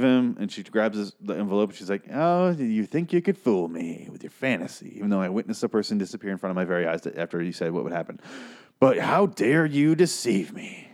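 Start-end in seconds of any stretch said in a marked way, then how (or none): 2.1-10.9 haughty accusation. Acted. Victoria scolding her husband, acted.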